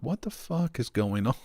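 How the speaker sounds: baffled, laughing retelling; bewildered laugh. Retold or imitated. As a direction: ask it under your voice, laughing at the end.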